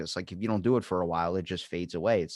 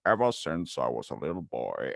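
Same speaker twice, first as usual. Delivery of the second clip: lower, unhurried narrator voice; Morgan Freeman narration; 6 semitones lower than usual. Retold or imitated. Imagines his life narrated in the mirror, deep Morgan Freeman voiceover. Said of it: "your life narrated by Morgan Freeman".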